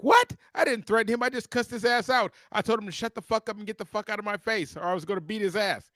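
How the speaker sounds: outraged retelling of his own protest; indignant disbelief. Retold or imitated. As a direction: voice shoots up in disbelief, then keeps heated. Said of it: "And I was like".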